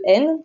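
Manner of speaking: n as a held "nnn"; isolated letter sound. Shown as a demonstration. Teacher explaining what two N letters make, sustained n. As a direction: sound out n, not the letter name. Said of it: "qui forment le son n".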